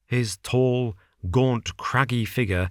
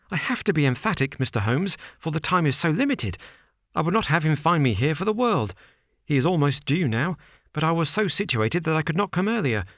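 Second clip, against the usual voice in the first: higher, hurried, agitated man; nervous Bates; 6 semitones higher, faster than usual. Acted. Nervous manager warns Holmes against his employer, hurried. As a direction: rush it out, anxious.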